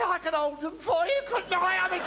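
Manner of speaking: high, eager mock girl's voice; coy girl. Comic telling: girl offers to hold the ducks, high and coy. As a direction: offer sweetly, falsetto tease.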